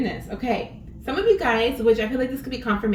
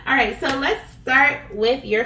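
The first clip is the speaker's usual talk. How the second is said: laughing; 4 semitones higher, 7 dB louder than usual. Real, not acted. Laughing while starting the reading.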